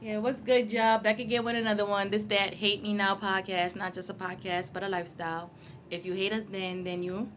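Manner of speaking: podcast intro. Acted. Co-host opening the podcast to listeners, understated intro read. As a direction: recite the show opener evenly and quietly.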